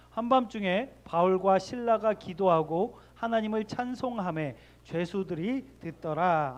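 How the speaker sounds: slow, measured Bible reading; scripture reading. Acted. Pastor reading the verse with the congregation, slow and measured. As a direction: read the verse aloud slowly with the congregation.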